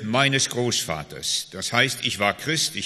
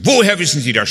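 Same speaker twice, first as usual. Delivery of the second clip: a loud, higher "Woher wissen Sie das?" yelled back; a woman shouting back during prayer; retold scream; 4 semitones higher, 10 dB louder, faster than usual. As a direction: yell it at the pastor, startled. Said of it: "Schrie sie mich an".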